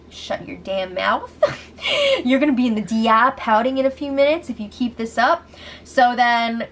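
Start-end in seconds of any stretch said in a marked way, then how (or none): 0.1-5.5 laughing quote. Retold or imitated. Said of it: "Kevin is telling him".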